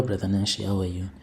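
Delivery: plain reading voice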